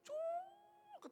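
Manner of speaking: very high, drawn-out zipping squeal; imitated line zip. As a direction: mimic fishing line whizzing off the reel. Imitates fishing line suddenly pulled.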